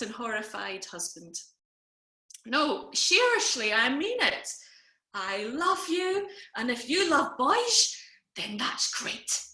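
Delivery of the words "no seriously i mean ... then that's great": put-on slow, loud, slurred drunken sincerity; slurring drunk insistence. Drunk sister insists to her silent brother she means it, slurring. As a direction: insist tipsily, swooping up on the key words. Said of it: "slurring a little bit".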